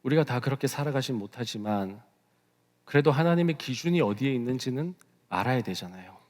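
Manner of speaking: usual speaking voice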